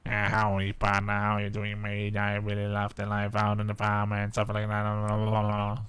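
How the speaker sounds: lightly done Texan accent, evenly pitched. Shown as a demonstration. Streamer comparing voices for a new character, light Texan accent. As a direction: do a Texan farm lover, running into babble. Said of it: "my Texan voice was like".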